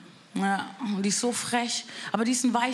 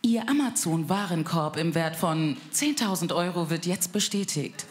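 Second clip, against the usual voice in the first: Bandansage; 3 semitones lower than usual. Retold or imitated. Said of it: "Ich ruf meine Mutter an und sag".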